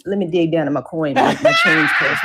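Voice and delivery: mock yell about the change purse; joking shout. Real, not acted. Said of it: "Let me dig in".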